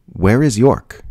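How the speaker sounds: high, loud shocked cry, voice thrown up. Acted. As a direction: blurt it out in disbelief at the creature. Fermi shocked by alien.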